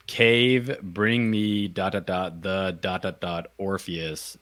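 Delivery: a hint of a dying man, slow, broken by long pauses; mock dying gasp. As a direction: play a dying man straining out each word, lightly. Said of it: "He's dying".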